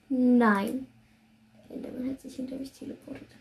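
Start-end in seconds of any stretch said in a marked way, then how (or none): 0.1-0.9 loud sudden no; shout of despair. Real, not acted. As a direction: yell it out in dismay. Enderman teleports behind. (verzweifelter Aufschrei)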